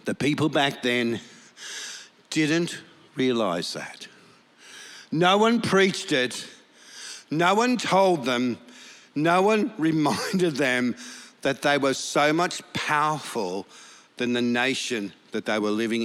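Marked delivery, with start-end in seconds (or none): 5.1-11.0 slow, punched preaching lines; emphatic repetition. Acted. Pastor stressing the church's silence, slow and emphatic. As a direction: hammer each no one.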